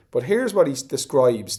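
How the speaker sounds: ordinary talk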